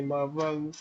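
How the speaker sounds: usual speaking voice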